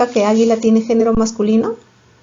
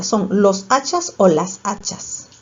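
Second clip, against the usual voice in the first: slow "¿Son los hachas o las hachas?" weighing both; slow choice question; slower than usual. Shown as a demonstration. Teacher quizzing pupils on the plural, slow and deliberate. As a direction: spell out both options slowly. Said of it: "A ver, pluraliza".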